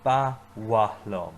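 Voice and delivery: slow, loud, clear repeat; slow repeat-after-me. Shown as a demonstration. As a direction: lead the class slowly through it. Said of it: "So say it with me".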